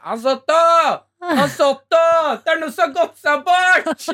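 high-pitched mock call for Hans Otto. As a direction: call out to him up high across the house. Wife calling for her husband. (kona roper høyt og lyst på mannen sin)

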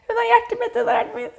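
high, thin imitation of wailing; pianto rievocato. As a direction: re-enact a desperate sobbing plea, very high. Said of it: "Da skrek jeg bare sånn".

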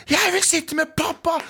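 put-on high whiny child's cry; screaming child. Kid on the plane begging for his dad, high whiny wail. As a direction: squeal it like a kid who wants his dad. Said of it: "så skriker kiden".

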